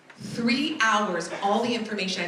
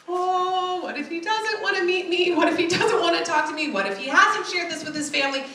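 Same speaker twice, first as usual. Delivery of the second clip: anxious worrying; 7 semitones higher than usual. Retold or imitated. Fearful thoughts voiced singsong.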